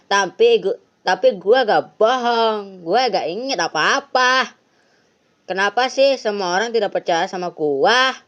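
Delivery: put-on whiny teen denying everything; kid Anton voice. (suara anak remaja yang merajuk)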